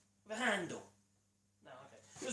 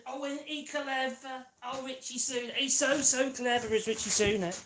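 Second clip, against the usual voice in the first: slow, higher mock admiration; sarcastic praise; 5 semitones higher, 3 dB louder than usual. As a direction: pretend to admire him, dripping irony.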